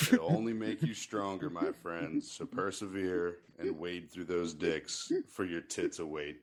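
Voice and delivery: slow, solemn reading of a mock inspirational quote; sweet voice. Shown as a demonstration. Podcast host reads a crude pro tip to listeners in a slow, sweet voice. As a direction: read it like a sweet, slow motivational poster. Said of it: "so much better with your sweet, sweet voice".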